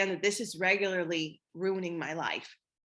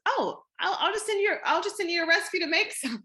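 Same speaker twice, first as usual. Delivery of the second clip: eager helper; 9 semitones higher than usual. Retold or imitated. Quoting her eager helpful self.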